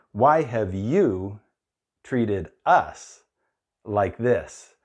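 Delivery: slow, self-centred reproach without fear. Shown as a demonstration. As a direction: say it as if it's all about them, slowly. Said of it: "if you take the fear out, listen again".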